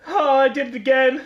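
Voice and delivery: high, loud cry of dismay with a laugh. Real, not acted. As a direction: wail it, amused at your own clumsiness. Rips the envelope again, laughs.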